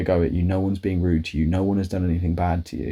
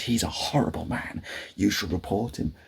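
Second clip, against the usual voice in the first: whispered; 5 dB quieter than usual. Retold or imitated. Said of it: "She, she goes".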